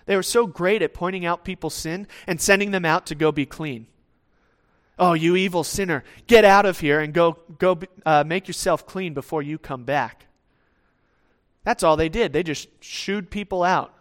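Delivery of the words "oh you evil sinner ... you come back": scornful Pharisee. Retold or imitated. Imitating Pharisees shooing sinners.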